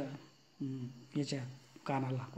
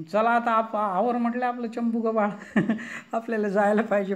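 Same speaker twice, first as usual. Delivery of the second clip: hurried urging; 5 semitones higher, 5 dB louder than usual. Acted. God urging Rukmini to pack.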